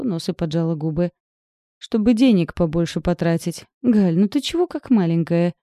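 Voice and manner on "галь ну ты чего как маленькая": ordinary delivery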